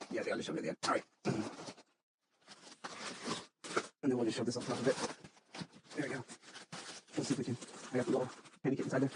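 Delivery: distant, off-mic voice; talking across the room; far from mic. Real, not acted. Working on the box away from the mic.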